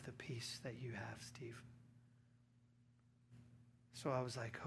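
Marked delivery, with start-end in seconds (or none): 0.0-1.6 hushed whisper, soft and slow; whispered confession. Retold or imitated. Father confessing to his pastor son, whispered. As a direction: whisper it like a secret you've held for years. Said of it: "And he says".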